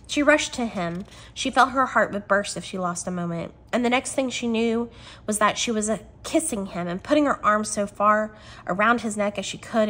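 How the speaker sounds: expressive read-aloud from a novel; animated storybook reading; story narration. Acted.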